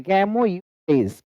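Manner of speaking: "camouflage" slowly as "kemo-yu-flez"; split for memorising. Shown as a demonstration. Teacher gives learners a memory aid, slow split word. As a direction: break "camouflage" up, a separate "yu" before "flage". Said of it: "इसको ऐसे भी याद कर सकते हैं".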